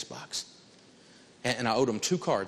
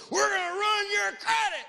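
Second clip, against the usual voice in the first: much higher shouted threat; mock collector threat. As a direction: yell it like a pushy collector. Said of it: "This guy calls up and goes".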